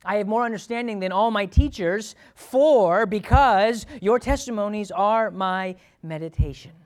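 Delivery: loud, rising preacher's exhortation; preaching. Acted. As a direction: drive it home to the church. Preaching the Psalm verse.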